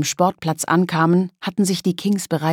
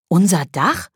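a mild surprised echo question; 3 dB louder than usual. Acted. Lele hears the boys want their roof, mildly surprised. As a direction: catch the word as if caught off guard. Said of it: "fragte Lele überrascht".

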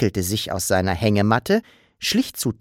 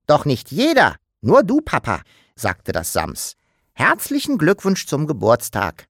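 put-on lightly higher cheeky child creature, cheerful; playful little creature voice; the Sams; 4 semitones higher than usual. Sams wishes Papa happy birthday, cheeky.

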